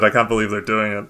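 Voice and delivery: ordinary talk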